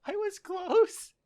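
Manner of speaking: very high, drawn-out whine; squeaky protest. Real, not acted. Co-host defending a botched idiom, squeaky protest. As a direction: squeal it in playful self-defence.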